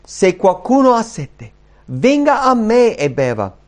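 high, emphatic call to a crowd; exclaiming. Acted. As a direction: cry out the invitation as scripture. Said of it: "esclamò dicendo".

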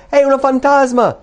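high, loud terrified cry of the disciples; frightened cry. A narrator's reading. Disciples in the storm cry out in terror at the ghost. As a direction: shriek it in fear of a ghost. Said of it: "si misero a gridare dalla paura".

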